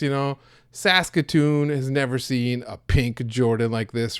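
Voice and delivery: broad small-town Canadian accent, lightly put on, swearing buddy to buddy; exaggerated Canadian accent. Telling buddy Gord about getting scammed, in a hammed-up Canadian accent. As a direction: play up a Canadian accent while telling a friend a story. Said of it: "here's what it would sound like".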